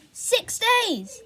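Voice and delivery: high but falling, musing; puzzled repeat. A narrator's reading. Boy repeating his sister's words, puzzled falling tone. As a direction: turn it over thoughtfully.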